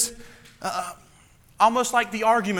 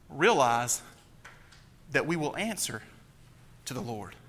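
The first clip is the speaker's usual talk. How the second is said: much softer, grave and low; hushed solemnity; 3 semitones lower, 6 dB quieter than usual. Real, not acted. Pastor reminding ministers they will answer to God, hushed. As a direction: let it fall to a sober hush.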